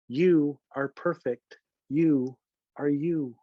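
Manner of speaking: slow, measured verse with pauses between lines; lullaby poem reading. Acted. Author reads his little lullaby book aloud, slow poem reading. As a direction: recite it line by line, lingering on each phrase.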